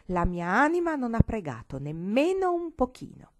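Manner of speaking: put-on child defying grandmother at bedtime; defiant. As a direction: throw it back at her defiantly. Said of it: "con occhi di sfida e disse".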